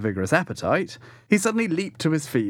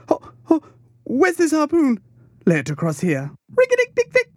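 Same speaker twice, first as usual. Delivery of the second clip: high, loud mad chant, much higher and louder; wildly raving; 6 semitones higher, 3 dB louder than usual. A narrator's reading. Pip raves wildly over dying Queequeg, high and loud. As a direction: rave like a crazed boy crowning a general. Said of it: "but more wildly now".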